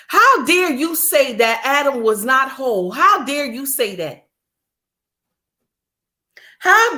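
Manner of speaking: indignant, emphatic scolding; exasperated, righteous telling-off; real anger. Real, not acted. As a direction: scold them like you're fed up. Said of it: "I'm so angry".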